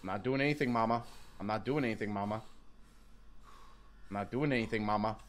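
mock innocence. Pleading innocence to mom.

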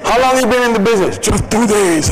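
high, strained scratchy voice; hoarse voice. Shown as a demonstration. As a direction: talk past a worn-out throat. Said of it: "I've lost my voice".

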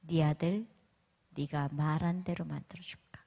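lightly voiced quiet divine question; low, softened, measured rebuke; a hint of a solemn voice from above; God. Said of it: "하나님 저에게 한 말씀 하셨어요".

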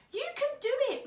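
high, lilting motherly encouragement; acted motherly reassurance; gentle encouragement. A narrator's reading. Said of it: "Mum said gently".

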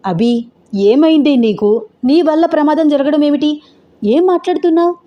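sister puzzled by what she hears; confused. Acted. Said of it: "అయోమయంగా చూస్తూ". (అయోమయంగా)

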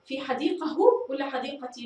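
حديقه with final h, then حديقتي with final ti; both endings contrasted. Shown as a demonstration. Teacher compares both endings for pupils, h then t. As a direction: set h against t in حديقه and حديقتي. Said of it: "نجرب الاثنتان".

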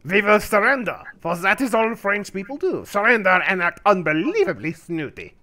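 put-on lightly snooty French accent; mock French accent. Streamer mocking the French, light snooty French accent. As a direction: play the snooty cartoon Frenchman. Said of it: "Because I am French".

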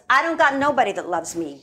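lightly faked Latina accent, quick lament; amateur Latina accent, rushed and wounded; bad Latino accent. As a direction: put on a rough Latino accent. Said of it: "doing a very bad Latino accent".

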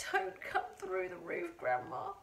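put-on high, pleading boy's voice; praying. A narrator's reading. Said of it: "he prayed".

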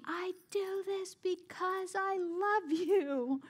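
lightly voiced mother, very slow; a hint of a stern mom talking down, slowly; imitating mom, slow and deliberate; mom's voice. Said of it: "And she would tell me".

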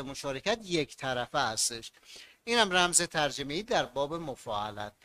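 ordinary delivery

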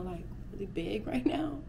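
whispered giggle. Real, not acted. Giggling about her big hips.

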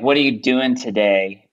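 plain American intonation, dropping at the end; American inflection. Shown as a demonstration. Expat showing friends the American way, American inflection. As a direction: say it with a flat-out American accent. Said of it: "in American, be like".

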